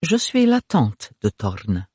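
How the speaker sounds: slow, gracious aunt voice; purring grande dame. Acted. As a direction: introduce yourself slowly and grandly.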